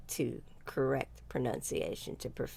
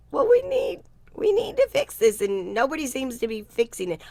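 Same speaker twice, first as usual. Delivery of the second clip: much higher and louder, urgent plea from frustrated singers; quoting worried singers; 10 semitones higher, 8 dB louder than usual. Retold or imitated. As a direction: ham up the singers begging for help. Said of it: "by singers who are like".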